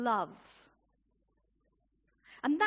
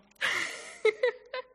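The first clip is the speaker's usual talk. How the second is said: burst of laughter; 9 semitones higher, 5 dB louder than usual. Real, not acted. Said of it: "I've got a whiz on".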